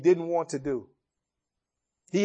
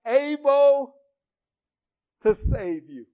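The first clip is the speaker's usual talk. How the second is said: anxious call; 5 semitones higher, 4 dB louder than usual. Acted. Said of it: "He says".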